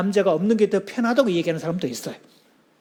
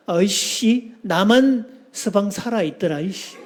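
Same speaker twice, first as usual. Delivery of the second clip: irritated wife; slower than usual. Retold or imitated. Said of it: "아내가 짜증을 내면서 딱 한마디 합니다".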